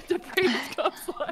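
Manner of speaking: slow mock drawl. Mocking VR chat status.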